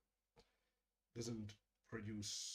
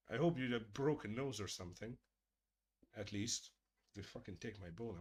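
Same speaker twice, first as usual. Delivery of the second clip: ordinary talk, nothing marked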